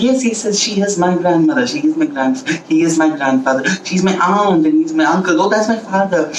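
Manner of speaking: mildly excited introductions. Acted. Elephant introduces relatives to the ants, mildly excited.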